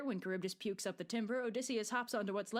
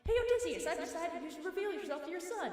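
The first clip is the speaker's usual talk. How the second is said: goddess voice; 8 semitones higher, 3 dB louder than usual. Retold or imitated. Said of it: "And then Athena's like".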